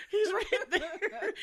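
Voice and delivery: loud, high, drawn-out disbelief through laughter; slow, laughing mock outcry; laughing exasperation. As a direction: stretch it out and crack up. Repeats it louder, laughing, drawn out.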